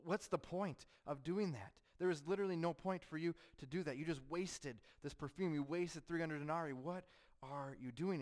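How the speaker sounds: high, loud, indignant scolding. Acted. Disciples scolding Mary over the perfume, high indignant voice. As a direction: berate her as if she has lost her mind. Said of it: "they're raising their voices at her".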